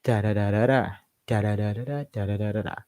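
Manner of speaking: "da" syllables stepping in a rhythmic pattern; staircase intonation. Shown as a demonstration. Teacher demonstrates staircase intonation, stepped syllables. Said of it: "staircase intonation".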